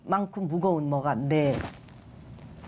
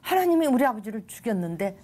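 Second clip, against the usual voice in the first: retold indignant challenge, raised pitch; appalled recoil; 5 semitones higher than usual. Refusing faith after losing her father, appalled recoil. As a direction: throw the question back, higher and affronted. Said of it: "하고 소스라쳤는데".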